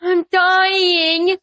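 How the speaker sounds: imitating crying. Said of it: "starts crying, and goes".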